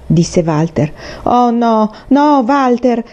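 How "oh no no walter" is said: higher-pitched, dismayed plea; protesting. A narrator's reading. Girl stops friend from fighting, protesting. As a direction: object with a high, urgent plea. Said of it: "protestò Faith".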